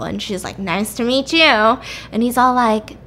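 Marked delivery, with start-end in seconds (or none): 0.6-1.8 put-on slow, drawn-out drunken greeting; stretched-out tipsy politeness, mimicked; drunk pretending normal. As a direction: greet him slowly, acting sober while drunk. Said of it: "I'm so drunk".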